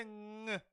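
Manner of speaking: "ng" as one nasal sound; ng with apostrophe. Shown as a demonstration. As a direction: hum "ng" without a hard g. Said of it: "It had an apostrophe".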